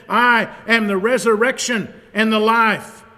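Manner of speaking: ringing out the declaration loud and high; proclaimed. Acted. Preacher to congregation, booming proclamation. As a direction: thunder it from the pulpit. Proclaiming Jesus' words aloud.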